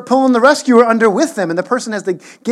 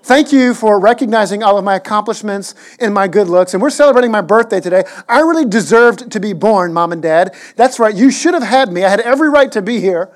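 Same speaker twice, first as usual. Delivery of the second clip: a pretend smug boy thanking his parents for what he earned; smug child; 4 dB louder than usual. Pastor voicing his imagined smug son at the birthday, mock smug. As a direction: preen and puff up like a kid who thinks he earned it all. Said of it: "got really smug and said".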